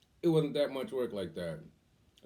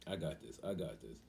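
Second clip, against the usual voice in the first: retold reassurance; 8 semitones lower, 8 dB quieter than usual.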